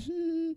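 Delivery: high, soft hummed chuckle; weaker amusement. Retold or imitated. Reacting to a second teasing, soft forced hum. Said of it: "Second time".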